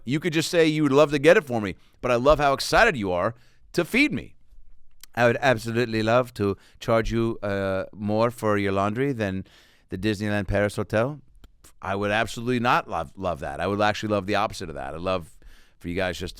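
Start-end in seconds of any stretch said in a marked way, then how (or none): 5.2-11.2 hotel greeter. Retold or imitated. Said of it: "The woman who sh-, welcomed us".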